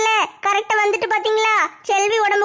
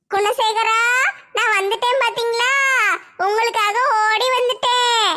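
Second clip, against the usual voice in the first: wailing ghost. Acted. Neighbour possessed, crying to husband.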